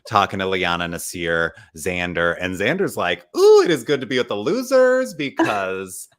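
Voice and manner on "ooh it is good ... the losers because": giddy, higher voice with laughs through it; gleeful laughing. Retold or imitated. Retelling Xander happy with the losers, laughing mock glee. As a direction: chuckle through it, delighted.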